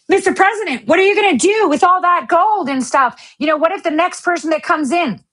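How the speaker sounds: high, eager reporter voice; a lightly voiced reporter; mock reporter. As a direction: play the pushy reporter pitching up. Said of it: "Let me give you the skit".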